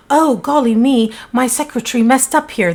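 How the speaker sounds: mock Australian voice, played up for the bluff; bad Australian accent. Melissa brushes off the colleague with a bad Australian accent. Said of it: "That's a horrible accent".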